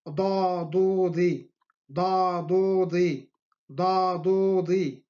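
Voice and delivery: heavy emphatic Arabic ḍ in ضادودي. Shown as a demonstration. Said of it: "y no enfática".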